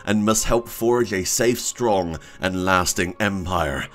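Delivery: a touch of grand movie trailer narrator; epic voice. Acted. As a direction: read it out like a solemn epic. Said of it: "You have to put on the epic voice for this".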